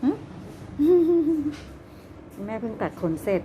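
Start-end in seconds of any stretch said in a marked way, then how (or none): 0.1-2.4 bright burst of laughter; high laugh. Real, not acted. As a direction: laugh out at the trimmed pet. Laughing at trimmed rabbit. (หัวเราะเสียงสูง)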